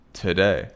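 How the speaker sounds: "today" said as "t'day"; reduced to in today. Shown as a demonstration. Teacher isolating the reduced "to" in today. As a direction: clip "to" in "today" to t. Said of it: "sounds like t".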